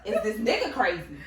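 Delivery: quoted through laughter, incredulous; laughing while quoting. Retold or imitated. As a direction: laugh through the line in disbelief. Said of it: "you gotta be like".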